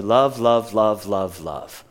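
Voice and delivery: the word repeated, stepping steadily downward; trailing-off descending chant; monotonous repetition. Shown as a demonstration. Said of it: "We hear love the whole time".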